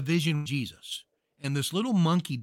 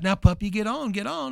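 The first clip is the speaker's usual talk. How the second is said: louder and higher, shooing the puppy; firmer shoo; 6 semitones higher, 4 dB louder than usual. Retold or imitated. Lady shooing a puppy off the street, rising. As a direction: urge the dog off, getting sterner. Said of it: "she stomps her foot".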